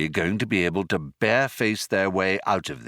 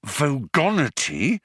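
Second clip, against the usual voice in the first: urgent whispered-style prompt of Vogonity; hissed prompt; 6 semitones higher than usual. Acted. Ford hisses Vogonity at Arthur. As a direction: hiss the word Vogonity as a prompt. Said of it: "Ford hissed at him".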